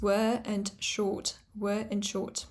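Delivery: "were" and "short" drawn out without R; long vowels. Shown as a demonstration. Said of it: "pronounce this wo-, vowel as a long vowel".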